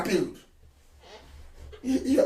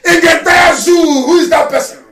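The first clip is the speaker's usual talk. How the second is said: loud, raised boastful challenge; defiant shout; 4 semitones higher, 4 dB louder than usual. Real, not acted. Leader challenging his critics about the UN, defiant shout. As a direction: hammer each question home.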